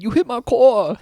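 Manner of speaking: put-on high, loud whiny kid voice; mock the kid whining; mimicking the kid. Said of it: "he said".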